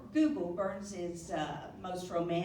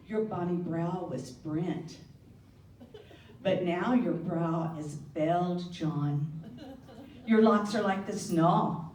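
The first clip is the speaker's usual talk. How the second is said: poem recital. Acted. Reading Burns's poem to the guests, in earnest Scots. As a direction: recite it tenderly, like a wife to her husband.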